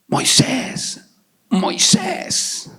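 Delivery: unvoiced, breathy call of God. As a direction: call Moses from the bush in a whisper. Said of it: "Dios le dice". (Dios llamando en susurro)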